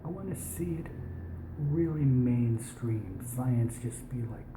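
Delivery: put-on, overly posh British accent; an American doing dodgy posh British. Real, not acted. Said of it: "speak in a British accent these days".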